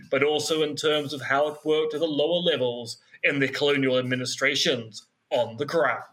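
dramatic trailer announcer; movie trailer voice. Shown as a demonstration. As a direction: epic voiceover read. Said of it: "do it in movie trailer voice".

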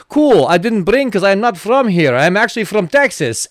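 lightly imitated Russian accent; casual claim in a put-on Russian accent. Concertgoer claiming Texan roots, mock Russian accent. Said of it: "It's like Russian accent".

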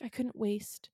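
tender whisper, no voice; whispered line. Retold or imitated. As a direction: breathe it softly to her. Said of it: "He's like".

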